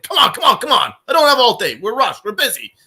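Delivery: mock impatient server, come on come on; impatient waiter rushing. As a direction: hurry the customers like a rude waiter. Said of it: "he kept rushing us".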